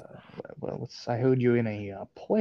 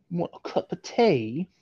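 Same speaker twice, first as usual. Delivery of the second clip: mock British accent; 4 semitones higher than usual. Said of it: "such a bad British accent".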